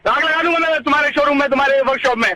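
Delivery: furious customer threatening the workshop; angry threat. Real, not acted. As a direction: threaten to burn the place down. Prank victim threatens workshop.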